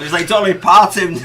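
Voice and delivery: laughing. Real, not acted. Teasing co-host about his shape.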